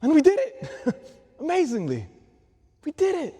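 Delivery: high, loud triumphant cry with a laugh. Acted. Priest recalling the moon landing, triumphant exclamation. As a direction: exult like the victory is fresh.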